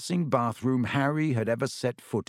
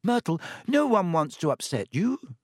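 higher, coaxing reassurance; placating; 6 semitones higher than usual. A narrator's reading. Hermione calms the offended ghost, placating. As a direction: soothe her earnestly. Hermione soothes upset Myrtle.

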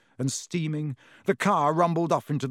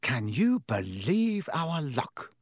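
miserable; slower than usual. A narrator's reading. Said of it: "said Ron miserably".

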